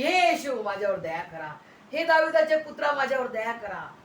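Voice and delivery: high, loud calls, each easing off. Retold or imitated. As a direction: cry out harder, pleading for mercy. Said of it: "तो अधिकच ओरडा लागला". (अधिकच ओरडून केलेली विनवणी)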